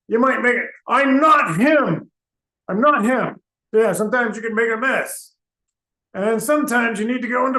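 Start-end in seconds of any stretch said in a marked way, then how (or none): 0.9-3.4 irritated blurt. Acted. Interrupts the health talk angrily.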